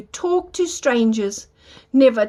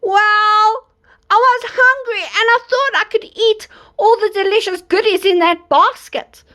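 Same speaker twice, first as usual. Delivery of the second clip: wolf voice; 7 semitones higher than usual. Acted. Wolf excuses himself.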